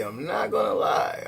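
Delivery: half-whispered, as a secret to the viewer; mock whisper admitting a fault; whispered confession. Confessing aside, hushed.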